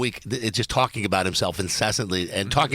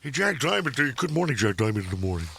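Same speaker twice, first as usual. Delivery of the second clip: a light take on a morning DJ greeting; Jack Diamond impression. Host mocking a rival morning DJ, mild cheesy DJ voice. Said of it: "that's kinda how Jack Diamond sounded".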